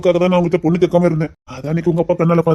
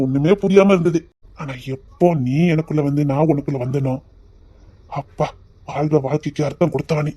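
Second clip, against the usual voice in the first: tender. Acted. Romantic confession to wife.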